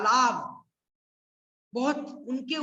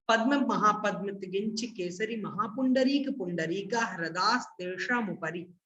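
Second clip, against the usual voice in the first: recitation in one go; 2 semitones lower, 3 dB quieter than usual. Shown as a demonstration. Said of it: "एक बार मैं एक साथ उच्चारण करता हूँ".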